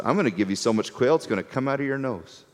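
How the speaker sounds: tossed off with a wink; wry divine reply. Retold or imitated. God answering complaints about meat, soft and fast. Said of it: "the Lord's response".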